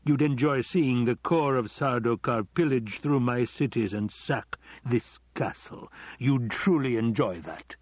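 lightly theatrical villain, relishing each word; a hint of a taunting overlord; accusing Baron. Baron needles Piter.

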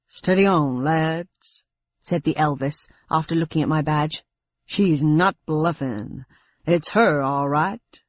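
slow, lightly done Elvis drawl; a hint of Elvis, laid back. Elvis impersonator speaks.

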